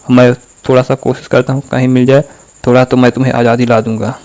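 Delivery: mock-hesitant, chatty request; limp, slack delivery. Shown as a demonstration. Imagined Netaji asking Sudhir and Sanjay for blood, slack and casual. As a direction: ask casually, as if for a small favour. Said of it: "बहुत ढीला ढाला बोल रहे होते".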